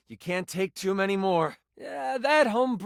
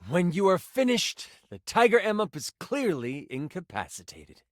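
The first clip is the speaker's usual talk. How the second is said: game master's battle narration. Acted. Game master describes the finishing blows, dramatic narration. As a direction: build the heroic moment with punchy key words.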